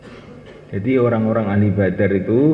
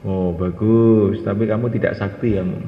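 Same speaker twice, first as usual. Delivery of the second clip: elder's reply. Acted. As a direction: draw it out, letting him down gently. Elder replies to worker.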